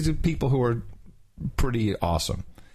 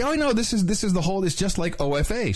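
higher, eager imitation of the activist; mimicking the woman; 8 semitones higher than usual. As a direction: play her gushing, pitched-up voice. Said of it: "she says".

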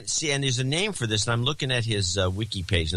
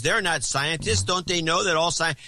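high, indignant mimicry of a complainer; mock outrage; 9 semitones higher than usual. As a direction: mimic them protesting in a raised pitch. Mocking celebrities' outraged complaint.

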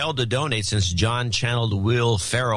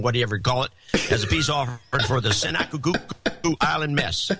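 higher-pitched hammed-up Southern announcer read; NASCAR announcer voice; 3 semitones higher than usual. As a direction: sell the donation note like a Southern race-day announcer, pitched up. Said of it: "Now, that, you nailed it".

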